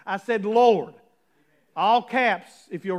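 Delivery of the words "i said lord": "Lord" punched loud and held; stress on Lord. Real, not acted. Pastor stressing the word "Lord" to the church. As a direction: lean hard on "Lord". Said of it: "did I hear what I said".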